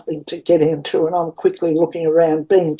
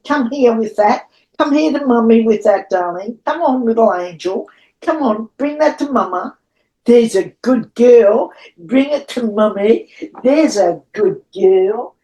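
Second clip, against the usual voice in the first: coaxing pet talk; 3 semitones higher than usual. Real, not acted. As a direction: sweet-talk the puppy into bringing it back. Coaxing her puppy to bring pen.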